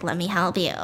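lightly voiced therapist, low and soft; a hint of soothing counselor; child psychiatrist. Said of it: "child psychiatrist in her pops out".

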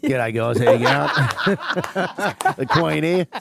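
Queen impression. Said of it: "now hear me do the Queen".

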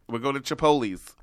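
Italian mom. Acted. Mom announcing where they'll get a burrito, Italian mom. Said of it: "She's like".

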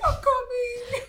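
very high, laughing wail; mock tearful cry. Answering a friend who needs her, mock tearful wail. Acting out frantic reply to friend.

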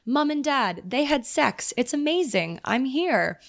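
high-pitched imitation British accent. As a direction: imitate a British actor's acceptance speech. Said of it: "imagine this in a British accent".

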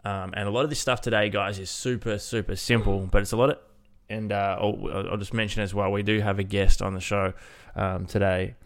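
blocked nose, nasal voice. Real, not acted. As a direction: talk through a stuffy nose. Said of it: "the nasally voice that you'll probably hear in today's episode".

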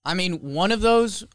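talking around an ice cube; ice in mouth. Real, not acted. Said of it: "I just put an ice cube in my mouth".

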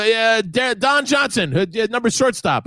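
high, offhand wrong name; careless dad. Retold or imitated. Son imitating dad brushing off the wrong name, high. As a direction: shrug off getting it wrong. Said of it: "He'd go".

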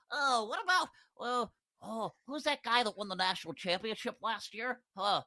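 put-on a clueless old owner groping for a name; Mark Davis impression. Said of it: "I just imagine him speaking like that".

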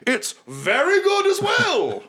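smooth, grand, apologetic host; oil every word with charm; lightly voiced theatrical merchant; Mahadi, gregarious tiger. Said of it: "he's like, Oh".

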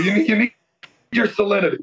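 hoarse, worn-out voice after partying; lost voice. Real, not acted. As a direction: croak through what's left of your voice. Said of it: "why I have no voice today".

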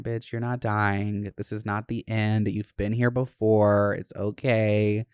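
slow, steady reassurance; coaching herself through an anxiety attack, slow and calm; calming self-talk. Retold or imitated. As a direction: talk yourself down gently. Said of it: "I'm like".

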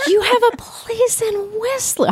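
high, laughing disbelief. Real, not acted. Host laughing at the guest's fancy winter home. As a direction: laugh it out in delighted mockery. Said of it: "this is where I winter".

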